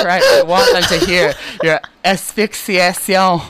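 slow words squeezed out through laughter; crying with laughter, barely getting it out; laughing hard. Real, not acted. Host laughing at his sister into the mic, wheezing.

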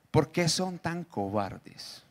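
tender. Acted. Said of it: "Jesús era muy tierno".

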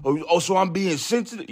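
high, indignant mock question; offended dude. Imitating the dude taking offense. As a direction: act hurt and defensive.

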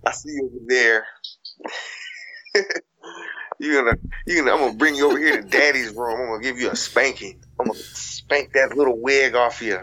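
low, lightly voiced heel promo; wrestling promo. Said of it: "Cut a promo as a former porn star".

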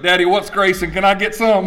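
a hint of a kid asking Daddy; lightly voiced other son. Other son asking Daddy for grace, lightly voiced child. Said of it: "Other son came up and goes".

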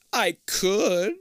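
high, slow, eerie disembodied voice; hollow echoing voice. Acted. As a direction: echo it out like a ghost in the walls. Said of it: "a hollow voice".

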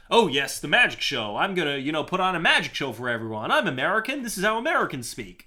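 hammed-up theatrical American showman; Hugh Jackman, stagey Mid-Atlantic. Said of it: "Mid-Atlantic accent".

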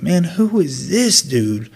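slow puzzled inner voice; inner thought. Retold or imitated. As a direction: muse it slowly to yourself. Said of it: "I'm like".

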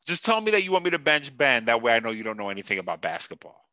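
a second stab at the coach's voice; mock coach voice. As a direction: redo the coach impression. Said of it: "that was a terrible impression".

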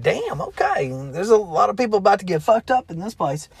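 wide-eyed, rushed disbelief; amazed. Retold or imitated. Narrator reacting to coming violence.

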